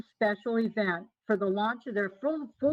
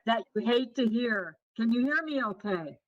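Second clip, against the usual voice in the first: tinny, hollow audio; like talking inside a tin can; tin can sound. Real, not acted. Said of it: "you sound like you're in a tin can".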